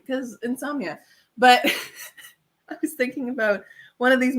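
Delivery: ordinary talk, nothing marked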